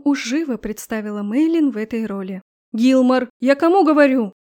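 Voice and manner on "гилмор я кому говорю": loud scolding yell; shouting. Acted. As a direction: pound on the door and yell. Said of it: "Продолжила ломиться в дверь Ева".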